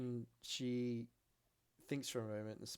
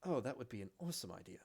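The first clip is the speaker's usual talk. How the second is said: put-on smiling elf girl; much faster than usual. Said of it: "She just smiles and goes".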